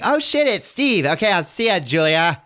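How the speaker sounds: high, hurried mock alarm; flustered Kirsty. Kirsty excusing herself as Steve arrives, mock fluster. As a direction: pitch way up, hammed-up fluster.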